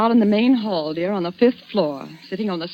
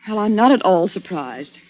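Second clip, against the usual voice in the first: scornful scolding; 3 dB louder than usual. Acted. Wife scolding drunk husband.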